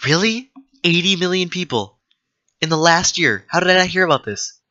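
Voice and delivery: can't believe what you just read; stunned disbelief. Real, not acted. Gamer reacting to a trivia fact, high astonished disbelief.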